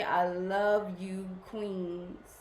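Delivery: slow, tender "I love you, queens". Real, not acted. Host telling her viewers "queens" she loves them, slow and tender. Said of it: "I just keep wanting to say".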